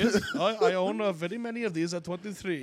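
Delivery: mild mock Indian accent. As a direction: mimic a shop owner's accent, boasting. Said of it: "That's exactly how they talk".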